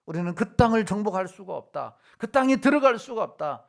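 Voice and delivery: retold protest, pitch climbing on the repeat; spies' protest. Preacher quoting the fearful spies to the congregation, mildly protesting. Quotes the despairing spies' report.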